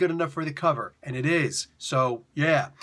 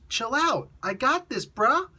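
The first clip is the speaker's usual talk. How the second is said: laid-back symbiote voice; 9 semitones higher, slower than usual. Retold or imitated. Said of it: "Why does your voice sound different?".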